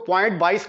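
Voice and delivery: "बाईस" as one number after the point; wrong decimal reading. Shown as a demonstration. Teacher warning students of a misreading, "बाईस" as one number. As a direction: run the digits together as "बाईस". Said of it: "नहीं पढ़ेंगे".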